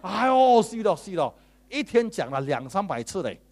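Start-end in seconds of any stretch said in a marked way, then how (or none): 0.0-1.3 loud, high mock wail; mock complaining. Preacher mocking a complainer's loud, high wailing. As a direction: ham up a groaning complainer. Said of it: "有的说".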